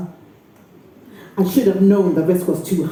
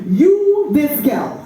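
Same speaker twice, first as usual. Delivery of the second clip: accusing call; 6 semitones higher, slower than usual. Acted. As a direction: call the girl out. Aunt accuses Pfizer.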